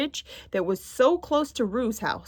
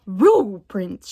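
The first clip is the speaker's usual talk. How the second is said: louder excited shout; 6 dB louder than usual. Acted. Tigger spotting footprints on the path, excited shout. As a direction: shout out the discovery. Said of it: "shouted Tigger".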